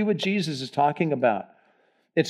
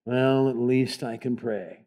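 slow, softer, resigned sigh; defeated voice; 3 semitones lower, 4 dB quieter, slower than usual. Retold or imitated. Pastor imitating the phrase he forbids, defeated. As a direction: drag it out like a lost cause. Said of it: "never say it again".

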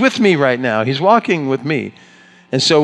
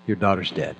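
blunt; 5 semitones lower, 7 dB quieter than usual. Acted. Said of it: "this is blunt".

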